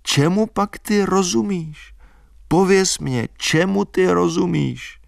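put-on high, insistent girl; teasing challenge. A narrator's reading. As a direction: demand playfully what he knows. Albína challenging him.

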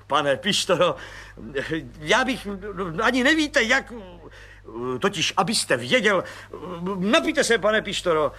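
lavish praise on the little man; gushing, overjoyed colonel. Acted. Grateful colonel.

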